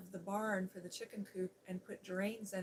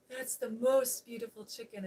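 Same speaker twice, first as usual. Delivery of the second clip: a touch louder, lightly gushing; half-hearted echo of the swoon; lightly voiced gushing admirer; mild gushing; 3 semitones higher, 9 dB louder than usual. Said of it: "he's gushing over the chicken".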